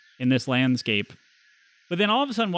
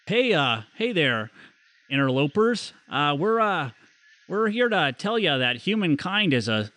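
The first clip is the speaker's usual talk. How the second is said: put-on American's go at a Canadian accent; folksy would-be Canadian druid; bad Canadian accent. Druid warns the intruders he must kill them, bad Canadian accent. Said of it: "a Canadian accent".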